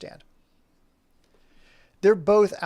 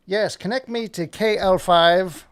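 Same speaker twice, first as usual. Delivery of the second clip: slow, louder pretend phone request; mock operator call; 3 semitones higher, 6 dB louder, slower than usual. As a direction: play-act calling the switchboard, drawn out.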